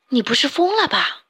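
the crowd of fish calling out, lightly voiced; cry out. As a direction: exclaim in disbelief. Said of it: "大家叫了起来".

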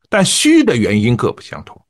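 imitating a student who hits each sentence head hard and lets the tail go weak; mock a learner: punch the first words, let the rest sag; heavy start weak end. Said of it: "当然我模仿的不是很像哈". (模仿学员：句头重、句尾虚弱)

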